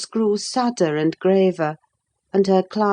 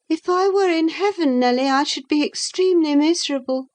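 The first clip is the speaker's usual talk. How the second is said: put-on lightly raised young woman's voice; young Catherine; 10 semitones higher, faster than usual. A narrator's reading. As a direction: speak up as the restless young lady.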